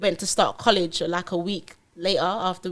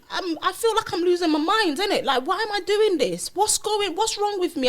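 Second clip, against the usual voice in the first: retold panic; 10 semitones higher than usual. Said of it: "He was like, 'cause he could see".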